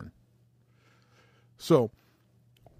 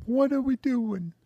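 retold disbelief; 9 semitones higher than usual. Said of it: "it's just like".

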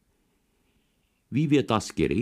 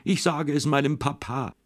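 tearful threat; 8 semitones higher than usual. A narrator's reading. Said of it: "hat immer geschrien".

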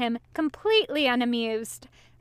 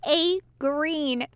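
giggling; 7 semitones higher, 3 dB louder than usual. A narrator's reading. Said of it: "Crowley said with a giggle".

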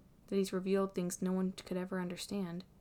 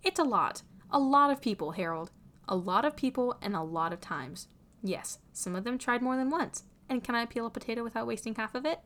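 high, loud, emphatic outburst; frustrated tirade with raised voice; exasperated rant; 4 semitones higher, 5 dB louder than usual. A narrator's reading. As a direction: hammer home every failure, loudly. Same exasperated rant about failures.

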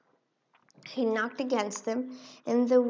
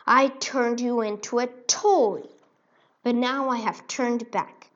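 defiant cry; 6 dB louder than usual. Acted. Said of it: "cried the Nutcracker".

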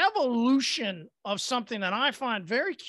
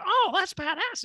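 higher, drawn-out impressed reaction; acted amazement; 9 semitones higher, 3 dB louder than usual. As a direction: let it out slowly, wowed. Acts out his amazed reaction.

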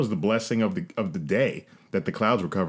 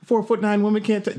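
much higher-pitched mock indignation; mad woman, imitated; 11 semitones higher than usual. Short woman told not to touch him, mock indignant. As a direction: throw it out high, imitating an affronted challenge. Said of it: "she was mad".

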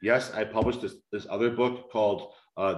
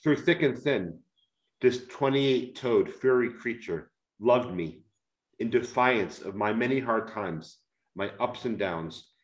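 heartfelt reading aloud. Acted. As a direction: read it like a tender memoir, letting pauses sit. Reads his book passage aloud.

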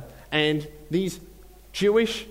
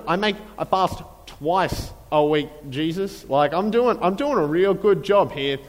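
boastful Pharisee; 3 dB louder than usual. Retold or imitated. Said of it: "he makes a big deal of it".

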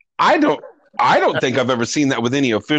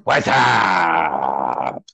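Budweiser Whassup; 10 semitones lower than usual. Retold or imitated. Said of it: "since probably Budweiser's".

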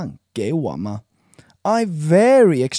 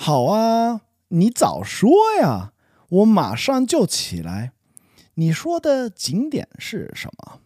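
put-on a light, higher child voice, eager now; kid voice; 5 semitones higher than usual. Son eagerly agreeing to get up, light kid voice. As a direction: play the son suddenly keen to get up. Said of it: "That was pretty good".

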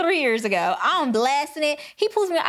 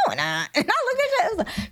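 laughing through the words; can't hold back the giggles; 8 semitones higher than usual. Real, not acted. Telling her cohost about the expired tag, laughing.

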